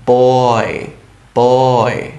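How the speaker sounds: "বয়" drawn out, the oy glide held; long, careful "বয়" gliding from o to i; pronunciation demonstration. Shown as a demonstration. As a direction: stretch the vowel of "বয়" for learners to copy. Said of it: "কিভাবে বলছি?".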